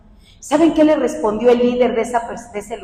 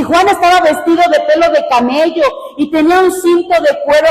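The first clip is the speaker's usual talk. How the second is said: raised, ringing preacher's reading; emphatic scripture reading; 4 semitones higher than usual. Acted. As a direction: proclaim the Bible verse to the congregation. Reads scripture aloud emphatically.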